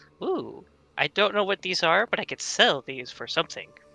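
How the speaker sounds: acted, in-character curious tone. Voicing a character's thoughts on found items: acted curiosity. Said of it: "partial curiosity".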